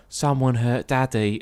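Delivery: lightly imitated creepy kid, slow; slow, emotionless child line, understated. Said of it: "That really creepy moment".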